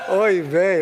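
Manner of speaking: a loud, high, put-on old-woman lament; imitating grandma's oy vey. Grandson mimicking his grandmother in a loud lament. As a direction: wail it like a fed-up grandmother. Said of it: "a combination of hand gestures".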